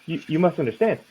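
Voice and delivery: put-on the old man pushing his bat fur, voice lifted up; doddering old man.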